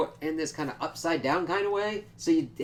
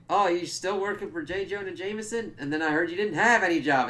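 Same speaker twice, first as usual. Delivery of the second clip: higher-pitched, lightly mocking needle; mock taunt; 5 semitones higher than usual. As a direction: tease him in a raised, put-on voice. Voices Flash taunting Peter.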